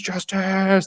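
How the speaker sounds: high-pitched theatrical cry; mock scream. Recapping Jay falling to his knees, mock scream. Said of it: "drops down to his knees and screams".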